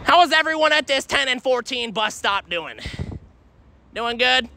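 calling out. Real, not acted.

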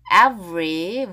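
"every" drawn out with a clear v; slow "every" down to show the v; V sound. Shown as a demonstration. Teacher showing the sound, v marked in "every". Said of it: "V 발음".

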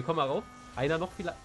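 ordinary delivery

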